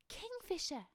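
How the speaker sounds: high, bright call of recognition; excited cry. Acted. Mouse spotting the kingfisher, crying out high. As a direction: squeak out the bird's name in delight. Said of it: "Mouse cried".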